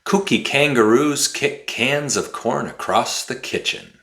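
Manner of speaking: fast tongue twister demo; really fast. Shown as a demonstration. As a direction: rattle the tongue twister off quickly. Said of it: "say it really fast".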